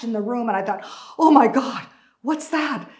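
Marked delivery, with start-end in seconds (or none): 1.2-2.9 loud, high exclamation; startled alarm. Retold or imitated. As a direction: react to a sudden crash. Startled reaction to the crash.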